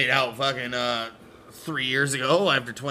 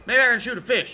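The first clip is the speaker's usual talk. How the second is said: put-on silly kid voice; 10 semitones higher, 5 dB louder, faster than usual. Voicing Jimmy joking.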